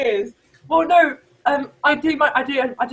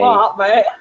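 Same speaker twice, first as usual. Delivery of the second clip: louder, rough stab at Australian; Australian attempt; 6 dB louder than usual. Asked to sound Australian, badly faked Australian accent. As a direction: try an Australian accent, unconvincingly. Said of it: "I can't do Australian accent".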